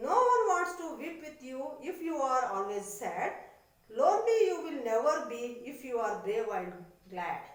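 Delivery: put-on teacher reciting the poem to children. Shown as a demonstration. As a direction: declaim the poem lines for the class. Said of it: "See how beautiful this sentence".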